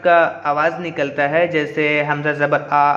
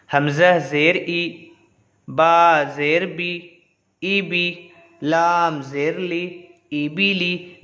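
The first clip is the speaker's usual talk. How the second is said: slow, measured letter-by-letter recitation; Qaida-style drill, evenly paced; spelling drill recitation; much slower than usual. Shown as a demonstration. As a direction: draw out each letter name, then join the syllables.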